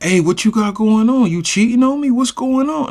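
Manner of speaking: put-on jealous girlfriend. Tall girlfriend confronts them.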